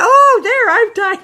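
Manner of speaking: high and loud mock fussing; high, loud hammed-up satisfaction. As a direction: overplay the caring gesture. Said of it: "you see him tie it".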